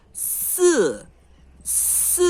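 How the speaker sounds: si lento, língua entre dente de cima e céu da boca, depois sussurrado; Mandarin si. Shown as a demonstration. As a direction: sussurre o si chinês. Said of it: "a língua é aqui em cima". (si do mandarim, sussurrado)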